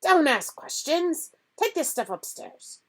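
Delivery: high, clipped commands; curt order. A narrator's reading. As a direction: snap the orders. Uncle ordering.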